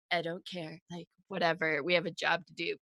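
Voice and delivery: low, quiet and offhand; sassy dismissal. Retold or imitated. Odella brushing off Roswin's hurt, quiet sassy shrug. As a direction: shrug it off like nothing matters. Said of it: "like, super sassy".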